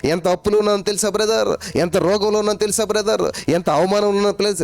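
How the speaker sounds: complaining believer. Retold or imitated. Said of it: "అబ్బే, అసలు ఎక్కదు మనకి".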